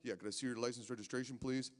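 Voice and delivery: a lightly voiced officer giving the spiel; bored cop asking for papers. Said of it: "you know, like".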